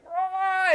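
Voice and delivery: high choked cry, imitated; muffled scream. Retelling sleep paralysis to friends, a high choked cry. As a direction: squeeze out a scream that can't get loose. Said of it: "it sounded so".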